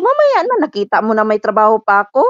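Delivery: indignant mock reply to employer; retold snap. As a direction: snap back at the boss. Maid snapping back at employer.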